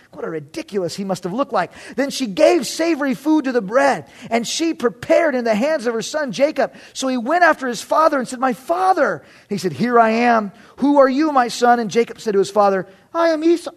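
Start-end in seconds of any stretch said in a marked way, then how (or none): 2.0-12.9 emphatic storytelling read-aloud; scripture reading. A narrator's reading. Preacher reads the chapter to the congregation, emphatic narration. 13.1-13.7 lightly voiced high-pitched impostor; high, put-on claim to be the brother; deceiving son. Jacob poses as his brother to his blind father, high-voiced.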